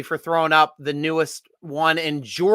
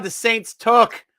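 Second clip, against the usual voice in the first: slow dismay; 5 semitones higher, much slower than usual. Real, not acted. Dismay at a draft pick.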